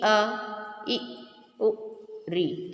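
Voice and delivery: अ इ उ ऋ each said short; short Hindi vowels one by one; short vowel demo. Shown as a demonstration. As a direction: say अ, इ, उ, ऋ short and quick. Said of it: "क्या अधिक समय लगा?".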